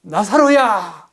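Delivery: drawn-out call to Lazarus, slow; loud call. Retold or imitated. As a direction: re-enact calling out to the dead man. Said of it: "큰 소리로".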